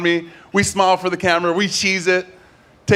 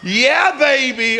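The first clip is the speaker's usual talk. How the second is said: Austin Powers voice; 6 semitones higher, much slower than usual. Retold or imitated. After Mike Myers story.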